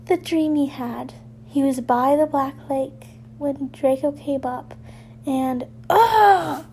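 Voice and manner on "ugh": frustrated groan. Acted. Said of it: "he hissed".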